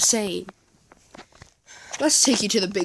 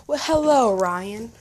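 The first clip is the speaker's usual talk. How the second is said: Santa greeting; 2 semitones higher, 7 dB louder than usual. Acted. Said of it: "And Santa says".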